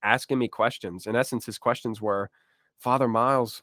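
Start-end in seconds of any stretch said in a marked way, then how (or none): 2.8-3.6 put-on a faint, half-hearted try at a New Zealand accent; abandoned New Zealand accent. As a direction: start the New Zealand accent, then give up on it. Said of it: "I can't do the accent".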